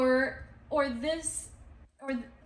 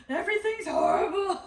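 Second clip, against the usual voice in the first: negative Nancy; 8 semitones higher, 5 dB louder, faster than usual. Retold or imitated. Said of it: "I'm like".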